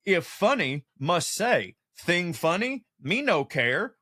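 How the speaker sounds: lightly voiced caveman, word by word; mock a simple-minded caveman, lightly; caveman talk. Comedian imitating the comic brain, light caveman voice. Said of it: "caveman shit".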